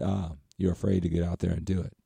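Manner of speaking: imitating the boss, calm and unbothered; calm and cool. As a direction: deliver it coolly, almost offhand, as a retold line. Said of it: "very calmly, coolly".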